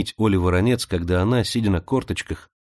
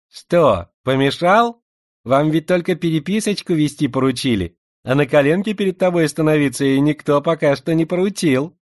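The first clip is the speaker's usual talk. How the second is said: slushy sh for s; 6 semitones higher, 4 dB louder than usual. Acted. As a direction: lisp every s into a slushy sh. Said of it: "своим шепелявым голоском".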